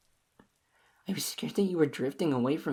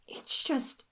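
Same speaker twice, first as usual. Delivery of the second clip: whispered; 7 semitones higher, 4 dB quieter than usual. Acted. Clingy lover faltering.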